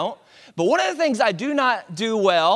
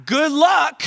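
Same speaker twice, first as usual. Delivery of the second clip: a slow, louder mock "good luck"; sarcastic dare; 8 semitones higher, 5 dB louder, much slower than usual. Husband daring his wife to try, sarcastic. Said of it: "I'm like".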